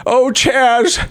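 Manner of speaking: high, slow, gushing singer impression. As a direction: gush like a singer at an awards show. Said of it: "I'll be a singer and be like".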